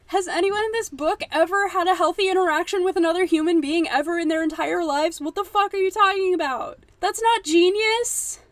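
high, loud disbelieving rant at the book; outraged yelling. Real, not acted. Ranting at a book character, outraged shout. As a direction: shout it like you can't believe the page.

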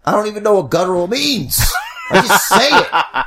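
cracking up mid-sentence; laughing shout. Real, not acted. Laughing at himself.

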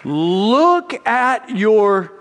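put-on high, urgent "whoa, whoa" that halts the child; a parent rejecting a half-hearted sorry, firm and urgent; parent interrupting. Parent stopping a fake apology.

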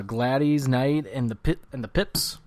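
The singer's first name said as GLAD-eez; unusual pronunciation. Real, not acted. Host introducing a Motown act, saying the singer's first name as GLAD-eez. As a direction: stretch the end of the first name to a long eez. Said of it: "That's how you pronounce her name".

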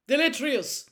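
high, loud shouted spell. A narrator's reading. Mister Diggory banishing the smoky skull, shouted. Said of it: "Mister Diggory shouted".

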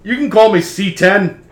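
high, loud character voice; coffin creature. Acted. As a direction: introduce yourself loudly as a cranky construct. Coffin gives its name.

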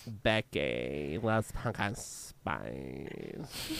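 put-on low, slow, creaky basic girl; vocal fry Becky voice. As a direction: drag it out in heavy fry. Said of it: "the pumpkin spice character's name is".

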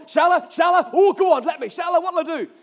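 loud, high eager begging; bouncing with eagerness to fight; excited. A narrator's reading. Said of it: "He's excited".

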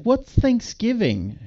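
high, slow questioning puppet; puppet character voice. Retold or imitated. Puppet asking the man about the holiday, high slow voice. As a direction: ask it high and drawn out like a puppet. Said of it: "she's like".

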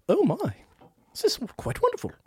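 regal, dainty and commanding; Queen of England. Pretend. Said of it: "Back in character".

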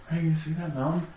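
high, casual cockpit chatter; overheard pilot chatter. Retold or imitated. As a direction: play the oblivious pilots. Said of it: "you just hear that guy in the background".

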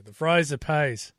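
mock Australian accent. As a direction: say it like an Aussie.

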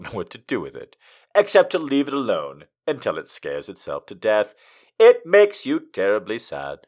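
tender, measured poetry reading; poem reading. Acted. Streamer reading Arnold's poem to chat, tender reading. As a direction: read the love poem sincerely.

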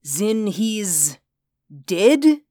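high, rising "dead?"; snatch at the hope; eager question. Acted. Reinhardt hoping the man is dead.

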